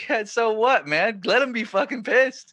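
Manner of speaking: egging his buddy on, voice climbing; excited urging. Retold or imitated. Teen urging friend to give up the shirt, loud and excited.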